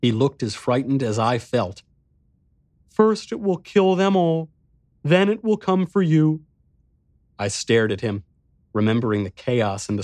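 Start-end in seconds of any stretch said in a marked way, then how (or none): 2.9-6.4 put-on high, small boy's voice; little boy voice.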